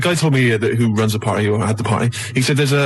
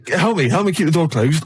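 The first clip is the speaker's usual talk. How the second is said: pleading in a lightly put-on Italian accent; imitated shopkeeper's foreign accent; mock Italian-like accent. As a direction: ask for help with a rough Italian accent. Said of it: "He's from Italy as well".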